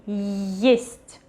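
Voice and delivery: Есть with a clear y before the stressed vowel; initial Y glide. Shown as a demonstration. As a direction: say Есть as yest, showing the opening y. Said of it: "There is still this Y at the beginning".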